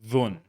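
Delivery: dhun said alone, clearly; syllable dhun. Shown as a demonstration. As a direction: sound out dhun. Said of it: "dho with an un sound".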